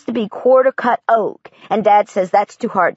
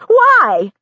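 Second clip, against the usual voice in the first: muffled crying moan; 12 semitones higher, 5 dB louder than usual. A narrator's reading. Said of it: "a muffled, crying moan".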